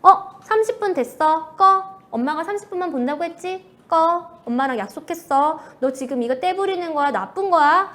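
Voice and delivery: loud, sharp mock scolding of a child; scolding mom. Mother cutting off her child's screen time, loud mock scolding. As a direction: bark orders like a fed-up mother turning off the TV. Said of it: "이렇게 해요".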